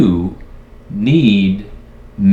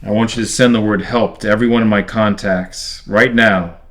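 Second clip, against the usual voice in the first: loud, furious orders; angry demand; 5 dB louder than usual. Acted. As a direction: shout the orders at it. Trapped man demands AI send help.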